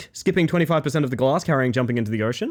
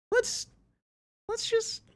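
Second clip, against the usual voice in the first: high soft squeak; 6 dB quieter, slower than usual. Acted.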